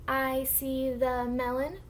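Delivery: slow, stretched model sentence for beginners; slow model reading. Shown as a demonstration. Teacher models a sentence for the class to echo, slow model reading. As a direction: read slowly word by word, rising at the end. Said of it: "I'm gonna read the sentence first".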